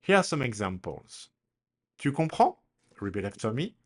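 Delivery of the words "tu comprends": "Tu comprends?" lifted high with a rising end; question intonation. Shown as a demonstration. Teacher models a question for learners to repeat, rising intonation. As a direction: raise "comprends" into a clear question. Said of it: "but the intonation is different".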